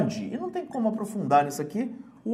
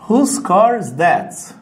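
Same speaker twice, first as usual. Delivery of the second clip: slow, loud model sentence; 6 dB louder, much slower than usual. Shown as a demonstration. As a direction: spell it out slowly and firmly for the class. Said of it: "Por exemplo".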